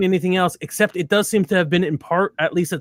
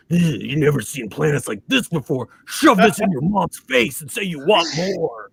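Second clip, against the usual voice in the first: gravelly commercial announcer. Retold or imitated. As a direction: growl it like a toy commercial. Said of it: "The gravelly voice of the guy".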